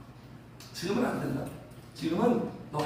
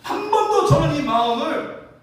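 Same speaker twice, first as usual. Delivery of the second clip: acted-out impassioned declaration, raised voice; earnest vow; 3 semitones higher, 4 dB louder than usual. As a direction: insist loudly on your devotion. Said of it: "진심이에요. 진짜예요". (결사각오로 진심을 호소하듯)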